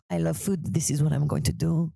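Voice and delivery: put-on chef in uncertain French accent; earnest chef with a muddled French accent; loose, comic French-ish accent; vaguely French accent. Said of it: "I don't know what ethnicity that is. Maybe he's French".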